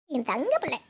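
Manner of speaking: soft, adoring grandmotherly cooing; doting coo. Acted. Grandmother admiring the sleeping child, doting coo. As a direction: coo slowly over the little ones.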